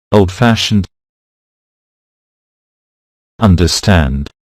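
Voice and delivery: put-on old-FASHioned, underSTAND, stressed on the second part; stress on second word. Shown as a demonstration. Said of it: "the stress is on the second word".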